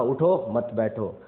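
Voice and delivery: slow, "उठो" set apart from "मत बैठो"; "उठो" के बाद ठहराव. Shown as a demonstration. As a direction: say "उठो", stop briefly, then "मत बैठो" as one. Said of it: "उठ जाइए और मत बैठिए". ("उठो" कहकर रुकें, फिर "मत बैठो")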